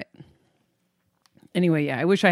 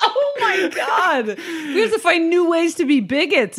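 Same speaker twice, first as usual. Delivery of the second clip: laughing; 11 semitones higher than usual. Real, not acted. Laughing reaction.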